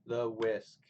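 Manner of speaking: "the whisk" as an iamb, weight on "whisk"; stress on last syllable. Shown as a demonstration. Teacher showing the poem's meter, stress on "whisk". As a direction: scan "the whisk" slowly as one foot, stressing "whisk". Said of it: "stresses on the last syllable".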